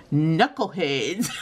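giggling through the title; laughing. Real, not acted. Reading a silly book title aloud, laughing. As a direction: read it out while laughing.

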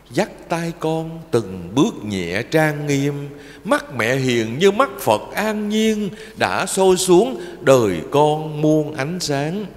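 slow, tender recited verse; poem recitation. Acted. Monk reciting a poem about parents to children, slow and tender. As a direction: intone each line like a prayer to mother.

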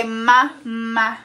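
loud, drawn-out syllables. Real, not acted. Coaxing baby to say word.

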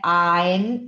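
"Ein" said as "ain", with an open A; EI como "ai". Shown as a demonstration. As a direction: say the EI of "Ein" like "eye". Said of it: "E com I tem som de A". ("Ein" com o E soando como A)

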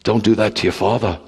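a hint of a mother begging her son; quiet pleading mother's voice. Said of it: "she said".

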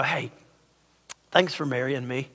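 soft, low thanks to a partner; tender aside. Retold or imitated. Husband glancing at his wife, tender and low. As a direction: say it quietly, as a private word.

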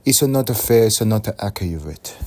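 a lightly put-on Asian accent, slow and rising; mock Asian accent whining about stereotypes. Vlogger complaining to viewers in a light Asian accent. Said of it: "Why am I doing an Asian accent?".

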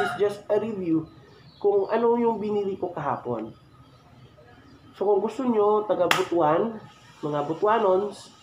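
muffled inside full-face helmet; through a helmet. Real, not acted. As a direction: behind a face mask. Seen 3: Full-face helmet worn, visor up, mask over mouth throughout.

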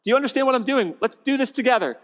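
loud, high, fed-up appeal to a lazy husband; frazzled mom calling out her husband; exasperated plea. Retold or imitated. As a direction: throw up your hands, come on help me. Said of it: "And you're like".

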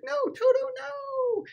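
put-on very high-pitched girlish cry; Dorothy. Dorothy calling back her dog, high mock-distressed voice. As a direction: squeal it in falsetto, mock distress. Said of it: "Dorothy's like".

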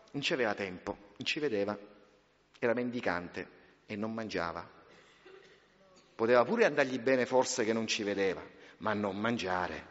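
a quiet, grave aside from the pulpit; hushed preaching. Acted. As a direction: draw the congregation in close.

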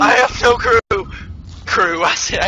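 shouting he has no backup. Real, not acted. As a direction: yell it out. Yelling complaint, then laughing.

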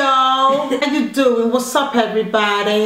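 put-on American accent. Mum carrying on her challenge turn, mock American. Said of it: "American, you go first".

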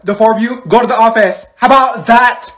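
loud, high telling-off; exasperated teacher. Acted. Teacher sending four pupils to the office, exasperated. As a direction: order them out, voice rising.

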